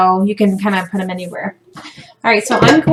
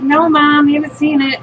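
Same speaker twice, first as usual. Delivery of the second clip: higher-pitched mock denial; lightly acted, raised-pitch protest; protesting kids; 5 semitones higher than usual. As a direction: imitate kids protesting to mom. Kids voiced denying it to mom.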